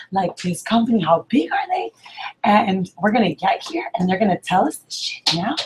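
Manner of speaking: imitating angry lady. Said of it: "she is just, like, pissed".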